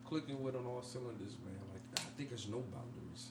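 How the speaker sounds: smooth seductive delivery; sexy voice. Pretend. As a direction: lay on the seductive charm, playfully. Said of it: "Can, can you turn off the sexy voice".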